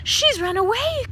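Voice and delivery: high, loud anguished cry; a mother who lost her child; high loud cry of alarm; distressed cry. A narrator's reading. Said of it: "cried Mother Lumps".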